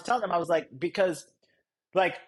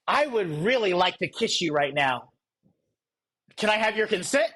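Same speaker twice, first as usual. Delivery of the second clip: mock stiff consent request. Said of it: "you say".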